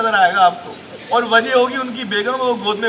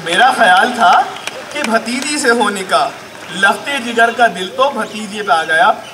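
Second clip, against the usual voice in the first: projected, measured comic verse; emphatic Urdu poetry delivery; mushaira recitation. Acted. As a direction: declaim each line with small pauses.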